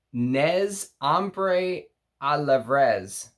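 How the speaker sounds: French name said with a Texas accent; slow, drawn-out Texas take on French. Real, not acted. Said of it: "Sorry about my Texas accent".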